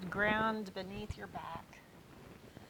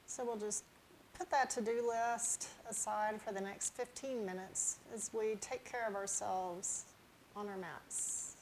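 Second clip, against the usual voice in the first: unhurried, gently lowered yoga-teacher voice; guided relaxation; 7 dB quieter than usual. Real, not acted. Yoga teacher settling viewers on their mats, calm guided relaxation. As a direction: ease them into the breath with long pauses.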